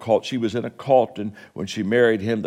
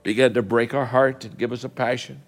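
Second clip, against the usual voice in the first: steady, earnest prayer voice; closing prayer. Real, not acted. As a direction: pray over the congregation. Closing prayer over music.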